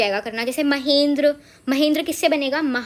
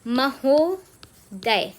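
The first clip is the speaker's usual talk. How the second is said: drawn-out word; much slower than usual. Shown as a demonstration. Teacher reveals the joined word to students, drawn out. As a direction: stretch out महोदय very slowly. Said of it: "महा plus उदय से बना है".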